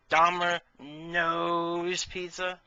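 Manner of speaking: very slow, stretched Domino's pizza; milk the punchline Domino's pizza slowly; Domino's pizza dragged out word by word; drawn-out punchline. Shown as a demonstration. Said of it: "Get it?".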